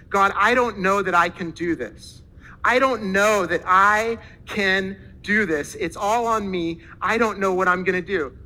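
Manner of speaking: loud, mildly dramatised plea to God; desperate prayer. Retold or imitated. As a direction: retell a man's overwhelmed prayer, loud and drawn out. Acts out man's desperate prayer.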